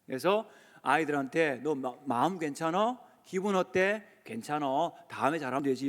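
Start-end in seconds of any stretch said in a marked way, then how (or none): 1.6-5.9 put-on tender, quiet reassurance to a child; gentle reassurance. Shown as a demonstration. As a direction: say it like you'd soothe a hurt kid. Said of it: "꼭 그렇게 해주세요".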